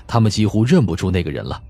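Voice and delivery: ordinary delivery, nothing marked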